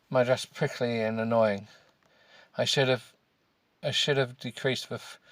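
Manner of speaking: measured, halting read-aloud; story narration. A narrator's reading. Podcaster reading a novel he distrusts, deliberate narration.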